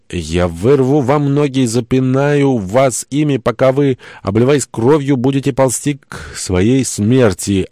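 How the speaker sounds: high, slow threat declaimed from afar; raving madman. A narrator's reading. Madman on shore threatens the boat, high slow ranting. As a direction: proclaim gory threats, drawing out the words. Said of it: "объявил с берега псих".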